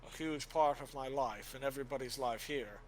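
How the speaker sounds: a believer voicing shaken faith; troubled warrior. Helwyn telling Father his faith is shaken, grave and earnest.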